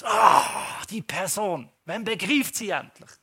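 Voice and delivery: mock exasperation at someone; inner frustration. Speaker voicing inner rage at an annoying person. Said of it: "innerlich sieht es manchmal so aus".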